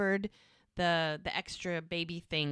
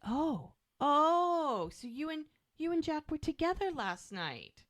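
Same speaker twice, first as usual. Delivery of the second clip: higher, mock-jealous voice; jealous accusation; 10 semitones higher than usual. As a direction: catch him out in a pitched-up jealous tone. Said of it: "She's like".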